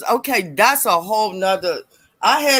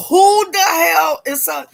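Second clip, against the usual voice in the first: louder, higher mock yell at her son; raised-voice retold confrontation; angry shout; 7 semitones higher, 4 dB louder than usual. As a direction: demand answers from the boy. Mother confronting son again.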